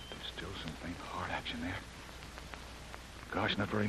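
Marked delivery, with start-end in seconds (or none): 0.1-1.8 hushed whisper. Acted. Checking the dying girl's heart.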